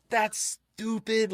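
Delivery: high, slow scoffing voice; mock scoff. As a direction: scoff at it in his voice. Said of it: "And he's like".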